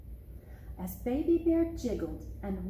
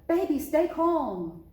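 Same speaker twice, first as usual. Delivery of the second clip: tense; 6 semitones higher, 5 dB louder than usual. A narrator's reading. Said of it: "froze and cried".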